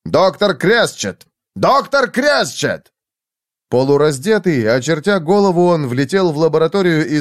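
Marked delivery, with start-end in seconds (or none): 0.0-2.9 high, drawn-out call, rising on repeat; urgent calling. A narrator's reading. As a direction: call out for the doctor, higher each time.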